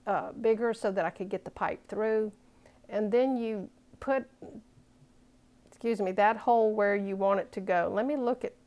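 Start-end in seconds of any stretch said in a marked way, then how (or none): 2.9-8.5 hiccups. Real, not acted. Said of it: "excuse me, I got the hiccups".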